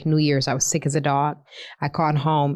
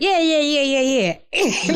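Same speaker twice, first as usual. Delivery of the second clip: dismissive; 8 semitones higher, slower than usual. Retold or imitated. Mocking their carefree attitude.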